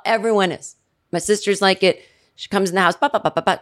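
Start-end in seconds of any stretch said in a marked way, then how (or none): 3.0-3.6 rapid "ba ba" imitation of chatter; mock jabbering; chatterbox babble. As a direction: imitate a nonstop talker with babble.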